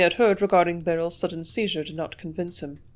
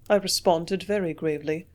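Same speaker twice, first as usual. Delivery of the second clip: plain reading voice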